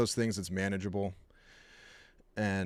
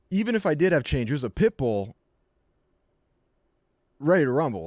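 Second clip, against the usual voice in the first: raised over barking; 4 semitones higher, 4 dB louder than usual. Retold or imitated. Shouting over dog barking.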